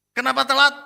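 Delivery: high, loud teacher's shout; retold scolding. Lecturer confronts a late student, retold angry shout. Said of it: "kalau saya marahin".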